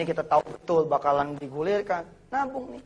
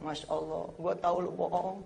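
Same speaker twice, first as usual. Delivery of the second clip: mother speaking; 8 dB quieter than usual. Retold or imitated. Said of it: "dia ngomong".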